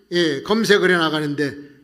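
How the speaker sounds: usual speaking voice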